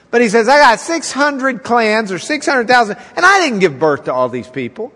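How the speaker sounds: a touch of exasperated Moses; blunt complaint to God. Acted. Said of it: "Moses takes it personally".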